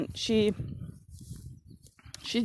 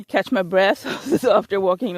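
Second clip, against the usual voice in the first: laughing; 4 dB louder than usual. Real, not acted. Laughing, out of breath.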